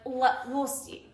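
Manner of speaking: slow, reluctant noncommittal we'll see; mock stalling boyfriend. Boyfriend stalling about the table, slow and reluctant. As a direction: drag it out like he won't budge.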